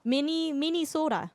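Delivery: teasing Minnesota imitation; Minnesota accent. Teasing chat, asking if Minnesotans say it this way, Minnesota accent. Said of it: "That's how you guys say it?".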